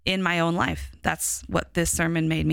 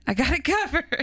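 put-on laughing Chicago accent, pitched higher; 8 semitones higher than usual. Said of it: "I slipped into my Chicago accent".

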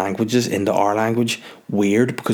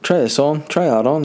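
pushy tailor; 6 semitones higher than usual. Retold or imitated. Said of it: "getting, like, measured and".

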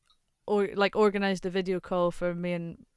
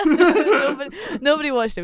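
laughing through the words; giggling while talking; 8 semitones higher, 10 dB louder than usual. Real, not acted. Laughing at the quiz story.

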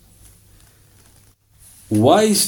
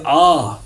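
drawn-out demonstrated "ah"; imitated open-mouthed yawn; yawn noise. Shown as a demonstration. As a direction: let out a long yawning "ah". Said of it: "what does he mean, ah".

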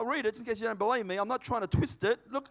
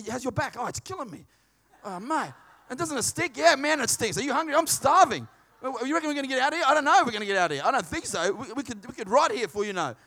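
complaining prisoner; 2 semitones higher, 4 dB louder than usual. Pretend.

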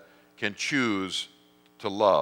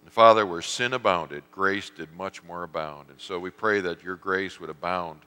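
closing prayer; 2 semitones lower than usual. Acted.

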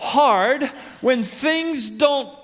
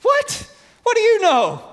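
mocking scoff; 7 semitones higher than usual. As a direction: scoff at him like he's a fool. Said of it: "definite scoffing, mocking".

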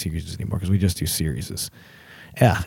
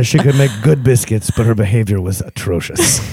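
lightly acted Mexican accent; a hint of Zorro in a Mexican accent. Cook complains about his wife's behavior, light Mexican accent. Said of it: "That's my Mexican accent".

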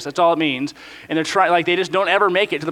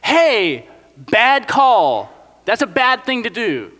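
higher, urgent pleading; pleading leaders; 5 semitones higher than usual. Pretend. Moses and Caleb pleading with the nation to trust God, higher and urgent. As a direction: plead earnestly with the crowd. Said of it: "four people who go to the nation like".

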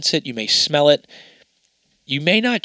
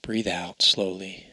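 soft spa whisper; 4 semitones lower, 6 dB quieter than usual. Acted. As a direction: breathe them down into calm. Leads a breathing relaxation.

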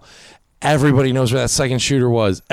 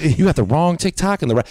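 put-on Cajun accent; 4 semitones higher than usual. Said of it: "he was Cajun".

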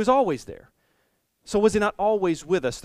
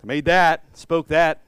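mock boasting; 7 dB louder, slower than usual. Jesus boasting in dialogue.

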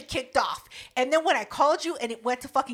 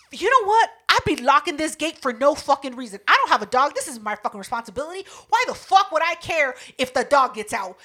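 retold angry rant; 4 semitones higher, 4 dB louder than usual. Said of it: "I was pissed".

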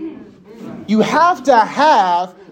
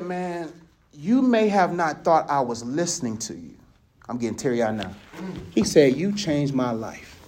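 soft heartfelt quote; 8 semitones lower, 7 dB quieter than usual. Retold or imitated. Student thanks him, moving him.

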